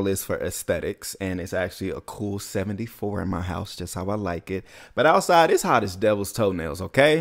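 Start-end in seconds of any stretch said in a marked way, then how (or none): 5.0-7.2 emphatic exclamation. Real, not acted. Emphatic about heat.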